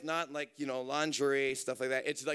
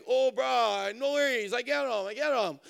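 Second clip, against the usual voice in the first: higher, louder, breezy reassurance; carefree cousin; 6 semitones higher, 6 dB louder than usual. Retold or imitated. Cousin brushes off the danger, cheerful and raised. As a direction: brush off the worry.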